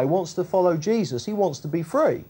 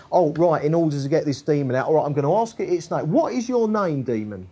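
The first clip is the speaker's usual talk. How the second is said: quick patter, then a raised formal question; mock exorcist questioning; 3 semitones lower, faster than usual. Mock exorcist asks the demon its name, brisk then pointed. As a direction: mimic someone following a procedure on a demon. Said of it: "Jesus isn't asking".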